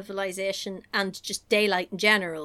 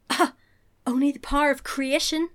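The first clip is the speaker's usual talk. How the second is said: lightly reprised villain line; a milder, higher echo of an evil overlord; Dark Lord; 5 semitones higher than usual. Retold or imitated. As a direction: quote the villain with a touch of menace. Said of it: "Like in the Dark Lord".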